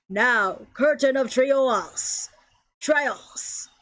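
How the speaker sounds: forceful villain casting a spell, slowly drawn out; deep villain voice. Acted. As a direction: call out the attack in your deepest villain voice. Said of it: "That's my deepest voice!".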